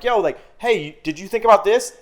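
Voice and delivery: mock taunting, rising into a yell; mock bully taunt. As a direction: jeer at him like a pile-on troll. Bullies piling on in Twitter space.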